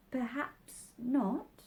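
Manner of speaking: slow, careful reply; cautious. Acted. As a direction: tread carefully with a rising end. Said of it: "Alice cautiously replied".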